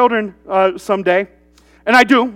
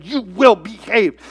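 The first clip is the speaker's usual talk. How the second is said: slow, deliberate scolding, not raised; angry teacher; slower than usual. Retold or imitated. Angry teacher ordering an unruly boy, restrained scolding. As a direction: spell out the order with restrained anger. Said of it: "became so angry at him".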